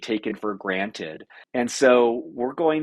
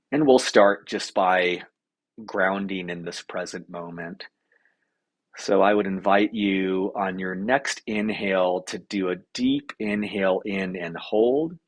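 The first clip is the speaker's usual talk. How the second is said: unhurried meditation guide, long pauses between instructions; lightly held calming guide voice; guided meditation. Acted. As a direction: lead a breathing exercise, pausing between steps.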